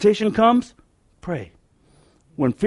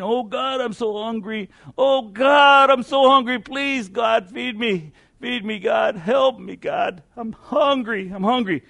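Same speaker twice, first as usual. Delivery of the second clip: put-on pleading old woman; 4 semitones higher than usual. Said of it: "she was praying, praying".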